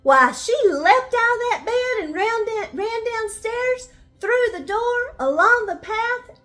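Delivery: excited. Acted. Girl flees in a rush.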